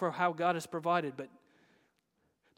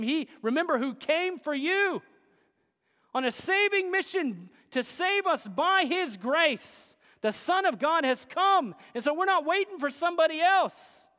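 higher-pitched pulpit appeal; impassioned preaching; 8 semitones higher, 5 dB louder than usual. Acted. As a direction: press it on the congregation with conviction. Preaches with raised voice.

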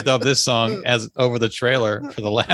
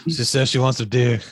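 movie trailer voice. Pretend. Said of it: "the movie trailer voice guy".

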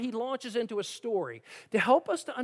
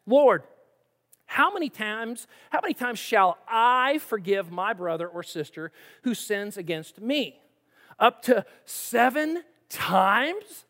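Peter asking. Acted. Peter asking Jesus eagerly.

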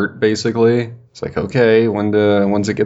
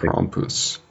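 Krampus breathed out in a hushed trailer whisper; 7 dB quieter than usual. Retold or imitated. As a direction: hiss Krampus like a movie trailer. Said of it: "can't stop myself from saying Krampus".

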